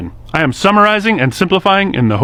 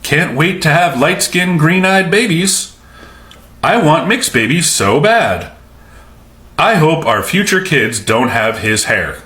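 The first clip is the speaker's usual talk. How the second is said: mocking quote; slower than usual.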